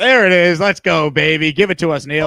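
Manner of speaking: loud hype yelling; excited shout. Real, not acted. Host hyping the end of the show, shouting excitedly. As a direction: whip up the crowd.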